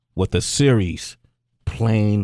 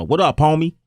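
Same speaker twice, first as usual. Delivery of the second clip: put-on West Coast accent; 5 semitones higher than usual. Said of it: "they took note of my West Coast accent".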